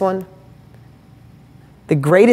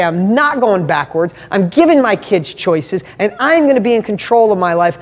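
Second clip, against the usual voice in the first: heartfelt resolve. Shown as a demonstration. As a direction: weigh out each vow with growing force. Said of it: "when I go into my heart and say".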